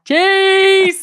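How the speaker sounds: put-on high squeaky child voice; kids' cheese. Toddler copying mum, high piping cheese. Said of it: "Renly's like".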